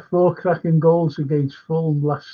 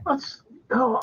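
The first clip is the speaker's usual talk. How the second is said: whisper; 7 semitones higher, 5 dB quieter than usual. Real, not acted. Laughing at the memory.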